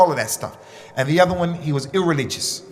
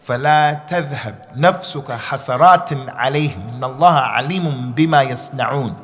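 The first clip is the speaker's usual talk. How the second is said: quran recitation; 2 semitones lower, much faster than usual. Acted. Quoting a Quran verse.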